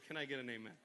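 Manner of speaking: soft, low call for an amen; hushed preacher call; quiet amen. Real, not acted. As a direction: ask it gently. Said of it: "soft amen call".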